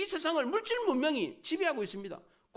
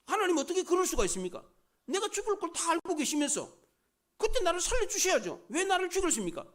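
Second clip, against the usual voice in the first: a martyr's raised-voice protest to God, higher; pretend complaint; 5 semitones higher than usual. Martyr Antipas protesting to God, higher pleading. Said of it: "이렇게 원망할 법도 하지 않습니까?".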